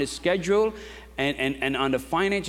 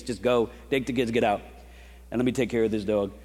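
retold worn-out plea, pitched low; drained, overwhelmed; 4 semitones lower than usual. Pastor tells family to get out, low and drained. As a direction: imitate being done and needing space.

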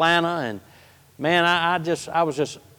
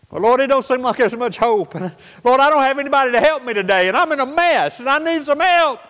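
desperate prayer; 6 semitones higher than usual. Retold or imitated. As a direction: pour out the need, pressing on. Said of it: "I went back into another prayer".

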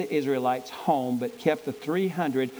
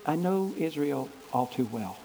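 voice of God; 2 semitones lower than usual. Acted. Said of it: "God's response is".

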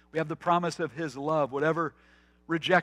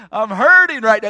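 put-on sulky child; 6 semitones higher, 12 dB louder, slower than usual. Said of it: "To which we say".

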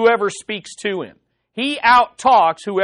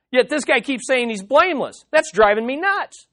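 higher, exasperated outburst; mock exasperation; 4 semitones higher than usual. Zophar fed up with Job's claims, higher exasperated outburst. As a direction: let the frustration burst out. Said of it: "he's frustrated".

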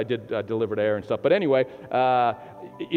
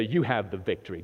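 softer line for the neighbour; quiet model line; 7 semitones lower, 6 dB quieter than usual. Shown as a demonstration. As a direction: say it gently to your neighbour. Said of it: "Turn to your neighbor and say".

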